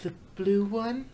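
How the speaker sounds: quiet voice. Acted. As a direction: ask it barely above a breath. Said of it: "She said in a quiet voice".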